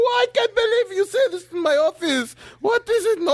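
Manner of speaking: high, exclaiming disbelief; the doctor can't believe it; shocked doctor. Acted. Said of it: "he's shocked".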